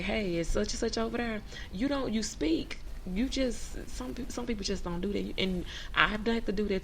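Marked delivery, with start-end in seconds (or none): 0.0-1.4 curt phone request. Shown as a demonstration. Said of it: "But you don't be like".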